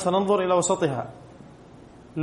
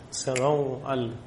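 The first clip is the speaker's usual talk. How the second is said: سموأل said slowly and lower, as if writing it; slow dictation; 3 semitones lower, 4 dB quieter, much slower than usual. Shown as a demonstration. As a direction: draw out سموأل for the board. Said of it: "أو على".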